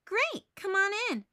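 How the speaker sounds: brash, friendly greeting at the door; breezy tomboy welcome; Peppermint Patty's voice. A narrator's reading. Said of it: "Peppermint Patty says".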